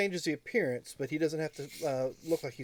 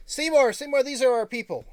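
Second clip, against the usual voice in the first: excited greeting; 7 semitones higher, 7 dB louder than usual. Acted. GM voices excited NPC greeting.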